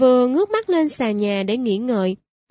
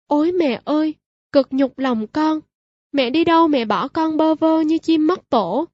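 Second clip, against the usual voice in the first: wailing lament; 4 semitones higher than usual. Acted. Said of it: "những tiếng khóc thảm thiết".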